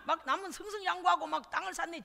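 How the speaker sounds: ordinary delivery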